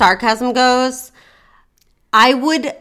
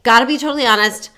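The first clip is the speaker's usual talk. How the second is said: mildly cheerful, friendly opener; upbeat; 2 semitones higher than usual. Shown as a demonstration. Coach models a first dating-app message for her client, upbeat. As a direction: keep it light and upbeat, a touch lifted.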